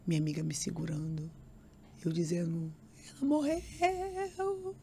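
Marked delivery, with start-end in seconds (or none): 3.1-4.7 much higher, very slow wailing cry; wailing disbelief. Retold or imitated. Told at the airport her mother died, wailing disbelief. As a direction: draw out the words as a grieving wail. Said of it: "E eu gritava".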